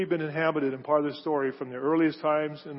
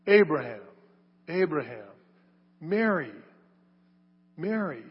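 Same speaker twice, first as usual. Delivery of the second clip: affectionate calling. Retold or imitated. Jesus calling his servants by name, affectionate and gentle. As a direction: call them by name like a loving father. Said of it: "the name was probably very affectionate".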